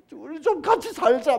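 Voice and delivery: high, loud pleading plea; sailors' desperate plea; pleading sailors. Acted. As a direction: beg him to join in. Sailors beg Jonah to join prayer.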